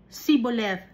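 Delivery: "Siboleth" with plain S, no H; "Siboleth" starting see, not shee; Ephraimite pronunciation. Shown as a demonstration. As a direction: say "Siboleth" with S replacing SH. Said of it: "Wala silang H".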